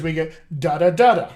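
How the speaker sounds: da da da da에 규칙적인 강세 리듬; da da da da rhythm. Shown as a demonstration. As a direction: tap out the stress pattern on da da da da. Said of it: "Nice stress that way".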